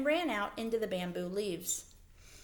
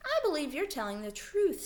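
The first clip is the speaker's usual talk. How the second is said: higher, full of wonder; 10 semitones higher than usual. Acted. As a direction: marvel at it as you say it. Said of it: "with wonder in his voice".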